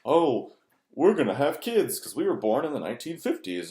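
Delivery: lightly mock the parents' cheerful life plan; mild sing-song parody of smug parents. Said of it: "It was more so they're about".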